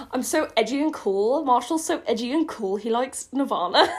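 singsong mock-cool boast; mocking poser. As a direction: sneer at the try-hard, breaking into laughter. Mocks own edgy character.

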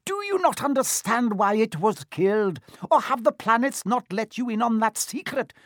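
high-pitched angry centaur tirade; impassioned bellow. A narrator's reading. Centaur defies his fellow for humans' sake, high impassioned bellow. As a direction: argue back hotly, pitch held very high. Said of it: "Firenze bellowed at Bane".

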